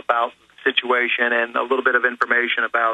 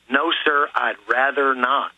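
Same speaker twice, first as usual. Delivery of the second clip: politely firm. Shown as a demonstration. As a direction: decline respectfully but stand your ground, unhurried. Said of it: "professional way. Use the word "sir".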